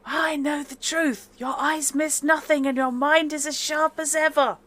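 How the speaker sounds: high, hammed-up southern drawl. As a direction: put on a Southern belle's drawl. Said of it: "I should be doing this in the southern drawl".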